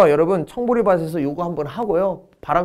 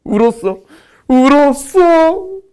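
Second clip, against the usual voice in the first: high, drawn-out tearful wail; mock crying; 10 semitones higher, 7 dB louder, much slower than usual. Teacher acting out how he cried for a mnemonic, mock wailing. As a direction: draw it out into a hammed-up wail. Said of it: "그래서 울었어요".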